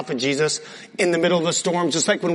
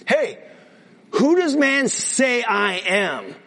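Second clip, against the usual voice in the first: calling out question; 3 semitones higher, slower than usual. Acted. Jesus questions his disciples.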